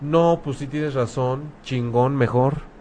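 mock grateful reply. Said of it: "la persona ... diga".

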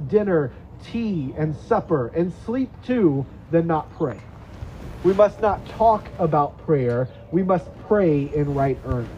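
put-on slow, earnest reading of an old quote, lingering on key words; solemn quote reading. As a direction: read it like a weighty charge to the church.

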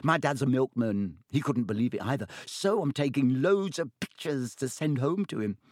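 put-on high, awed young voice; excited first-year gushing to his hero; excited boy. A narrator's reading. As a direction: gush with wonder. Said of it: "shuddering breath of excitement".

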